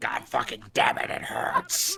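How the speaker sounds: loud, drawn-out, furious cursing yell. Acting out stubbing a toe: mock angry yelling. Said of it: "When I stub my toe, I'm like".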